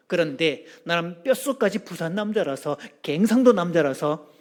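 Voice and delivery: lightly acted Busan groom; Busan man's accent. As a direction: speak as a Busan husband laying it out. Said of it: "어느 부산 남자가 장가를 가면서 그랬답니다".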